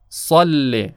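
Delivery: صل with a heavy, rounded ص; صل said with a full ص; emphatic saad. Shown as a demonstration. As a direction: give صل a thick ص with the lips rounded. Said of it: "مثالهایی رو که مشتمل بر حرف صاد هست".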